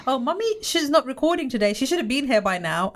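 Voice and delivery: a hint of a child's high voice; imitating young daughter. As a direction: mimic a child chatting to her teacher. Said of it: "So she goes".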